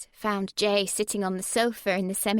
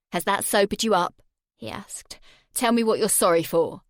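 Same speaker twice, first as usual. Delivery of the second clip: menacing Jay; 4 dB louder than usual. Acted. Jay holding her face over the flame, menacing. Jay voiced through the scene.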